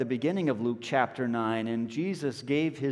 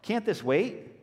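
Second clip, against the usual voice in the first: mock whine, higher, rising; exasperated disciples; 6 semitones higher than usual. Disciples complaining to Jesus, exasperated mock whine. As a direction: plead that it can wait, exasperated. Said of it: "picture the disciples saying".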